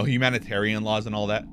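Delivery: usual speaking voice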